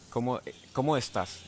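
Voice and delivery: Cómo estás run together fast; ¿Cómo estás? blended quickly; quick Spanish run. Shown as a demonstration. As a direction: rush ¿Cómo, cómo estás? as one phrase. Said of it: "all together".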